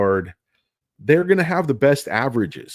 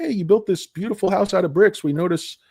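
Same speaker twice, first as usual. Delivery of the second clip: lightly voiced sweet-talking squatter; a touch of a sly houseguest begging to move in; mock-polite freeloader asking to crash; mock CATL pleading; 8 semitones higher than usual. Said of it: "They're like".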